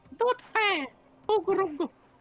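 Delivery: very high, loud, squeaky giant voice. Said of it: "squeaky pitch, high pitched voice".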